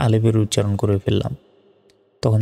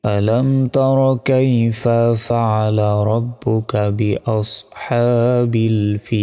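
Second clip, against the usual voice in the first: very slow melodic tajweed recitation; drawn-out verse chanting; Quran recitation; much slower than usual. Shown as a demonstration. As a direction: chant it with long, held final vowel.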